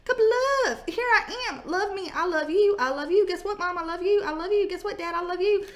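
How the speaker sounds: high, fast, lovesick dog voice; high adoring puppy voice; gushing pet voice. Pretend. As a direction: pour out love like a happy puppy. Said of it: "this is like".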